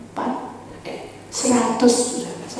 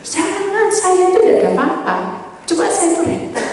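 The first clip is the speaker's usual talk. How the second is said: protesting; 10 semitones higher, 6 dB louder than usual. Retold or imitated. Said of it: "Dia bilang".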